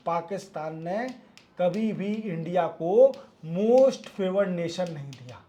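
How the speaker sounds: each phrase slowed and spaced; slow emphatic repeat. Shown as a demonstration. Teacher to students repeating the point slowly. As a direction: spell it out slowly so it sinks in. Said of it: "repeats it slowly for emphasis".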